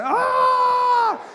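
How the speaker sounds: a high, loud panicked scream. Retold or imitated. Driver on the wrong side, a high panicked scream. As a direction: shriek like a car is coming at you.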